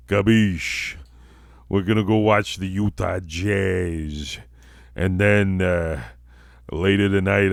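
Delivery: put-on wise-guy character; comic character voice. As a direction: play a swaggering, joking tough guy. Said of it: "It's the debut of my character".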